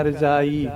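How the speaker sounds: ਰਜਾਈ with ਜ like z; z sound. Shown as a demonstration. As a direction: say ਰਜਾਈ as raz-ai. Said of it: "ਜ਼ੈਡ ਵਾਂਗੂ sound ਕਰਨਾ". (ਰਜਾਈ ਜ਼ੈਡ ਵਾਂਗੂ)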